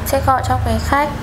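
polite phone operator voice; formal hotline greeting; customer service voice. Pretend. Prank call as Viettel operator.

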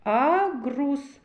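"Агрус" with the hard g leaned on; second sound picked out. Shown as a demonstration. Teacher showing children the second sound, hard g stressed in "Агрус". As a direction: press on the Г in "Агрус".

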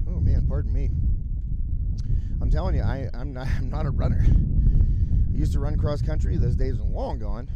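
catching breath while talking. Real, not acted. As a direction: still winded, talking between breaths. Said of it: "Pardon me while I catch my breath".

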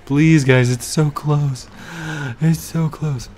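beg, slow and eager; pleading excitedly. Real, not acted. Pleading with the game.

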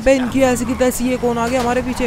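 sudden high, loud alarmed yell; startled shout. Real, not acted. Gamer startled by attackers chasing his car, loud shout. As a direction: yell out in surprise at the car behind.

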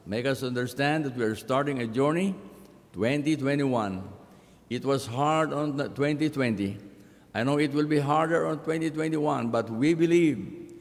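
solemn pastoral prayer. Acted. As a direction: pray aloud for the congregation. Pastor leads opening prayer.

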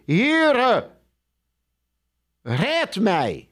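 Peter crying out to the Lord as he sinks; cry for help. Acted. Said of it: "En hij schreeuwde".

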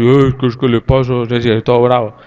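lightly mimicked grumbling father-in-law; a hint of comic angry muttering. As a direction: imitate an older relative grumbling when cross. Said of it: "él cuando está bravo habla así".

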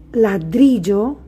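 ladrillo, slowly, with the weight on dri; stressed middle syllable. Shown as a demonstration. Teacher gives pupils a word to sound out, stressed middle syllable. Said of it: "la sílaba que suena más fuerte es".

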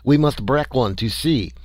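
little Frenchman exclaiming. Acted. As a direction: burst out with French excitement. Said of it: "exclaimed the little Frenchman".

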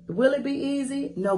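ordinary talk, nothing marked

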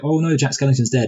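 understated pretend grief, mostly own voice; lightly mock crying mayor. Mayor fakes tears for Jack, lightly mock sad. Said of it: "crying and he's like".

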